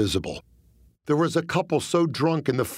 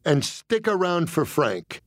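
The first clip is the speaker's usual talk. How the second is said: parting ad lib; 4 semitones higher than usual. Retold or imitated. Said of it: "I said".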